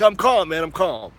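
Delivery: retold insistence.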